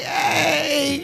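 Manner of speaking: put-on high, bright hey to an old friend; excited hey. Excited hey to her old friend at the lounge. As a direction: greet a friend you bumped into. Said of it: "we're excited 'cause we're friends".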